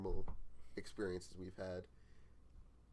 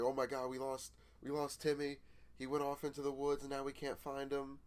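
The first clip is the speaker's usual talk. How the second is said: raised-pitch pretend panic; mock scared; 5 semitones higher than usual. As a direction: act frightened, as if a friend is lost. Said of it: "all, like, scared".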